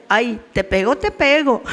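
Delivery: mock whiny teasing of an empty threat; teasing singsong, mocking the threat; lightly mocking "te pego, te pego". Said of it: "burlándose".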